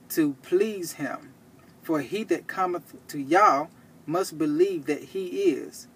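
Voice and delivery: deliberate, emphatic verse reading; scripture reading. Real, not acted. Preacher cites Hebrews on believing, deliberate scripture reading. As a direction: declaim the verse in measured phrases with pauses.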